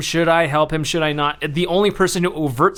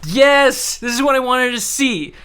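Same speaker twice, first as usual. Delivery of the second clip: excited cheering; 6 semitones higher than usual. Retold or imitated. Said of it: "And I'm like".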